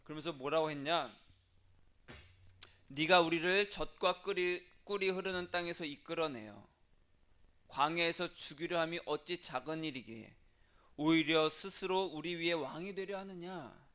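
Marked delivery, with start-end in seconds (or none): 2.9-13.8 loud, declaimed scripture quote; defiant accusation. Retold or imitated. Rebels refusing Moses' summons, loud defiant accusation. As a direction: hurl the charge like a formal indictment.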